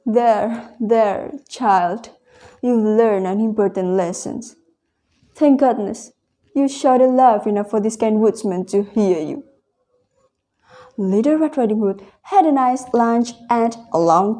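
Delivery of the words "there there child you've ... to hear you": put-on calm the child gently; lightly voiced soothing grandma; comforting grandmother.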